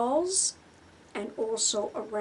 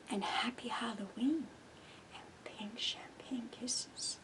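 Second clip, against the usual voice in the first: femme fatale; 8 dB quieter than usual. Acted. Sultry whispered sign-off to viewers.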